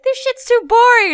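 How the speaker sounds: high, loud cartoon whine; hammed-up yell of impatience; mock bored complaint. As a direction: play a thrill-seeker shouting a complaint. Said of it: "and it's like".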